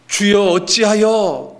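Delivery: high, loud, drawn-out lament; anguished slow call of protest; crying out to God. Acted. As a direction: wail up to heaven, stretching each word. Acting out a cry of complaint.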